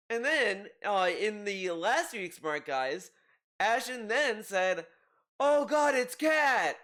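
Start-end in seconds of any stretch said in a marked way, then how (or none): 5.4-6.8 a mock startled cry, louder and higher; playful fake panic at seeing Kat; mock alarm. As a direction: blurt it out like you just spotted her. Ashton's alarmed outburst, quoted.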